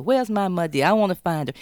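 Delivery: a daughter hunting her mother down in anger; angry demand. Retold or imitated. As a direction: Annie Ruth storming the funeral home, loud demand. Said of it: "storms into the funeral home".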